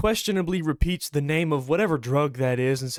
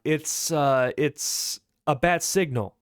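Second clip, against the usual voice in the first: slow, halting, mildly sheepish answer; falter, then admit it with a falling end; hesitant admission; slower than usual. Acted. Bruce admitting the signal to Deadpool, hesitant.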